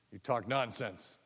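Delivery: slow, level dismissal; a skeptical ant chief; stern General. Acted. The General brushes off the boy, slow and stern.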